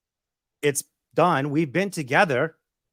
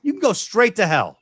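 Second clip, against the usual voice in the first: mock angry shout; 3 semitones higher, 3 dB louder than usual. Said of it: "screaming and saying, "Go to hell".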